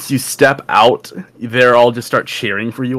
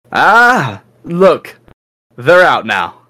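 squad captain; 4 semitones higher than usual. Acted. Squad captain to newly arrived recruits, higher and imperious. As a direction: hail the new arrivals with a raised voice.

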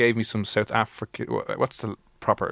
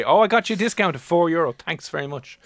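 higher salesman voice, dropping away at the end; salesman announcing; 5 semitones higher than usual. Acted. Salesman to a customer about a discount, announcing it. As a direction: play a salesman delivering a token deal. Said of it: "and then they".

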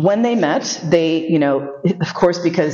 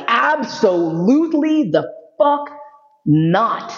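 husband's flat refusal; 5 semitones higher, slower than usual. Retold or imitated. Husband's emphatic refusal, voiced.

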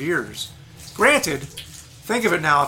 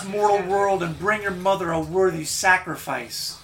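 high, slow, proud monster queen; Medusa, high and proud; regal Medusa; 4 semitones higher, slower than usual. Acted. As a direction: purr it like a serpent queen. GM voices Medusa.

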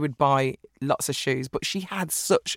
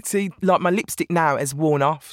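usual speaking voice

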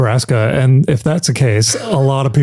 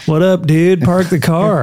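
put-on California accent; 4 semitones higher than usual. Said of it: "if you're in California".

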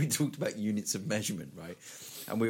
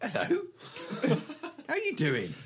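mock dog voice; 13 semitones higher than usual. Chinese dog speaking English.

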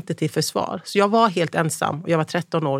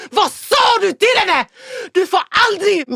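furious high screaming telling-off; Pontus; 5 dB louder than usual. Retold or imitated. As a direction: yell the accusation at full force, re-enacted. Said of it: "han bara skäller ut honom". (skäller ut någon med gällt skrik)

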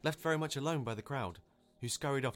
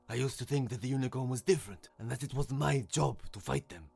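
raised, emphatic confession, phrase by phrase; earnest lion; 3 semitones higher, 5 dB louder than usual. A narrator's reading. Lion explaining a change of heart, earnest. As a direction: address everyone with feeling.

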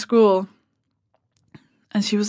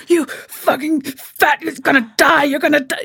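slow, higher, sneering mock insult; imitating strangers abusing fat people, mock hostile and higher; mock abuse; 5 semitones higher than usual. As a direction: spit it out like a jeering stranger, slow and exaggerated. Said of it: "They go".

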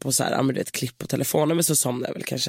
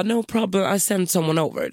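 put-on higher receptionist with a light Spanish accent; breezy reassurance in a mock Spanish accent; 4 semitones higher than usual. Receptionist offering to send a bellboy, Spanish accent. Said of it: "spansk brytning".

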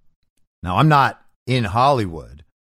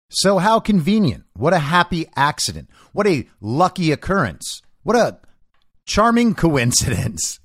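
higher-pitched, sarcastic marvelling; mock delight; 5 semitones higher than usual. Real, not acted. Host mocking a suspicious coincidence, in sarcastic delight. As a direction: gush with exaggerated, knowing sarcasm.

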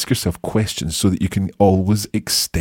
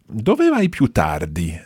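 slow question; 3 semitones higher, slower than usual. Shown as a demonstration. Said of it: "La domanda è così".

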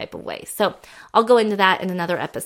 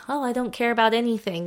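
mock apathy; 4 semitones higher, faster than usual. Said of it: "Your neutral is not just like".

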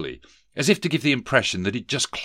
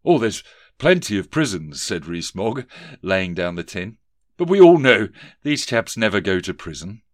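a lightly voiced toff asking politely; pompous gentleman; 5 dB louder than usual. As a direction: collector addressing the office owner. Rees-Mogg answers.

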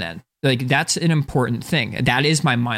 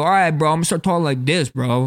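lightly mocking bro talk. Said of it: "outside force made me go".

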